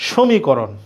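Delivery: সমীকরণ said slowly, syllable by syllable; pronunciation demo. Shown as a demonstration. Teacher demonstrating সমীকরণ to the class. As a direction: sound out সমীকরণ with care. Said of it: "নাকি সমীকরণ বলো".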